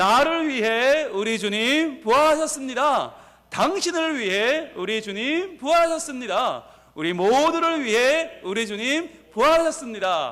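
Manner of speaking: joyful, slow, drawn-out shout.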